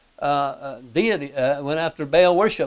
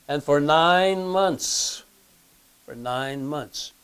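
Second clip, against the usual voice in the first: slow, weighty repetition; slow emphasis; 4 dB quieter, much slower than usual. Shown as a demonstration. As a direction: draw out nine months. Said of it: "repeated for emphasis".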